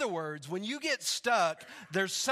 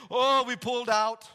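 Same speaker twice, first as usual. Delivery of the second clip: put-on raised, animated Ugandan accent; 3 semitones higher, 6 dB louder than usual. Rescued man describing the flood to the pastor, Ugandan accent. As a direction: imitate an excited Ugandan storyteller's accent. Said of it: "This is an awesome accent".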